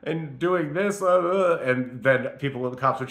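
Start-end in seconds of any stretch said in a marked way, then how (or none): 0.0-1.6 higher-pitched, mock-distressed pleading; imitated crying plea. Retelling calls to parents, mock-tearful pleading. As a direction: re-enact a bewildered, upset plea. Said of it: "call my parents and family crying".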